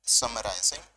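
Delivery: very drawn-out, long silences between words; dictation. Shown as a demonstration. Teacher gives students the list to copy, slow dictation. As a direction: dictate piece by piece, leaving time to write.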